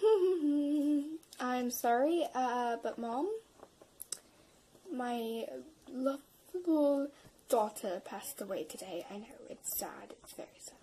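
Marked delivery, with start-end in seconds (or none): 4.9-10.8 mock sadness. Pretend mourning to Mom.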